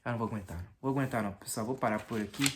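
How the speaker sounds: drowsy and tired; nodding off, worn out; sleepy. Real, not acted. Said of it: "eu tô morrendo de sono já".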